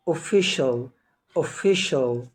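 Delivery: "official" modelled twice with SH for the C. Shown as a demonstration. Teacher modelling a word for learners, C as SH in "official". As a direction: say "official" with a clear SH, pause, repeat. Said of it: "بتنطق شين".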